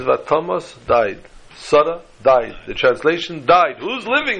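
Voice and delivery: a child's lament, lightly played; mock crying child. Rabbi tells a crying boy's lament, mildly mock tearful. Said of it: "The boy starts to cry".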